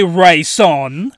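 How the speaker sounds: villainous call. Acted. Villain calls heroine's name.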